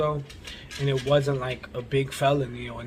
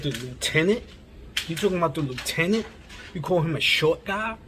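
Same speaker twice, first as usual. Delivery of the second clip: imitating a shocked woman's rising questions; higher-pitched, disbelieving mock questions; retold incredulity; 4 semitones higher than usual. Shocked lady challenges his wording.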